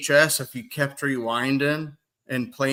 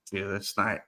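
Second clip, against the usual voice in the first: hushed aside; 5 semitones lower, 7 dB quieter than usual. Retold or imitated. Own reply, hushed.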